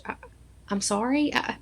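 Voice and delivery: tentative, as if asking; retold confusion. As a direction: imitate a doctor fumbling between condolence and congratulations. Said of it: "she was confused on what to say".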